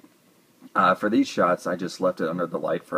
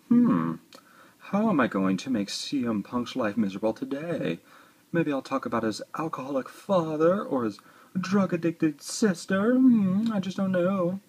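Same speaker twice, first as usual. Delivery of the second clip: higher, put-on scheming accent, rising to a squeaky peak on the hmm; Chris Jericho's little accent; 10 semitones higher than usual. Figure's smirk voiced as the heel plotting against CM Punk, in a higher put-on accent. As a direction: play a smug heel plotting aloud in a funny accent. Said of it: "I don't know why he did that little accent there".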